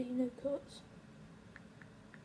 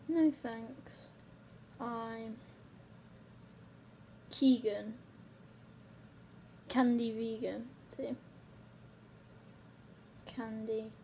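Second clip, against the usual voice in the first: typing aloud; 4 dB quieter, much slower than usual. Real, not acted. Saying words while typing a text.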